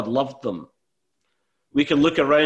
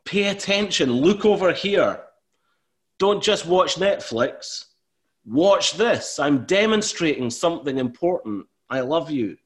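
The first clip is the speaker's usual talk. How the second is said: higher, urgent call to look over here; turned-up volume; 6 semitones higher than usual. Pretend. Preacher voicing God calling to the congregation. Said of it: "is turning up the volume and saying".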